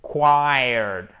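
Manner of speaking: only the end of "Required", a drawn-out "kwired"; KW sound demo. Shown as a demonstration. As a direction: stretch the "quired" of "Required". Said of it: "il faut bien faire le quoi". (« quired » prolongé, son « quoi » marqué)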